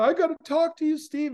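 high, urgent retold plea; mock tearful urgency; bawling. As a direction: imitate an upset woman, pitch jumping up. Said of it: "And she's bawling".

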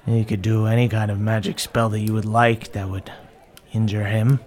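Zelda. Acted. Game master answers as Zelda.

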